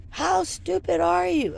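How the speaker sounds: retold insult from a furious officer; mock angry yell. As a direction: imitate the commandant sneering at her. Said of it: "And he goes".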